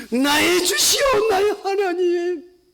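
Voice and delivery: very slow, high crying plea; preacher breaking into a weeping cry; tearful cry. Acted. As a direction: cry out to God in tears. Crying confession.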